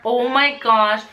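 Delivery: ordinary talk, nothing marked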